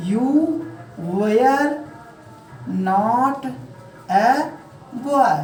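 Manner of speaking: Indian-style English, one word at a time; "were" as way-yar, long pauses between words. Shown as a demonstration. Teacher dictates to students, Indian-style demo. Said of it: "ये तो रही हमारी Indian style की".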